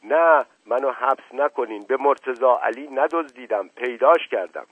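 high, loud begging; pleading. A narrator's reading. Servant begging the officer not to jail him, pleading. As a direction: plead innocence in alarm. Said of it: "به التماس افتاد".

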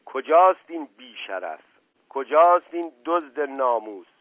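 loud, furious narrated yell; angry shout. A narrator's reading. Husband hunting his rival from the yard, angry shouting. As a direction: demand it loudly, hitting the first word hard. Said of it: "صدای فریاد خشمالود".

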